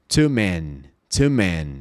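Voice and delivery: Two men said low, no smile; closed men. Shown as a demonstration. Teacher showing a closed vowel, low. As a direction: frown a little on men. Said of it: "Você não sorri".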